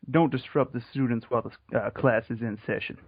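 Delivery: genteel Southern lawyer accent. Shown as a demonstration. Co-host performing the requested line, Southern lawyer voice. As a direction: recite it as a Southern gentleman lawyer. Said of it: "with my southern lawyer voice".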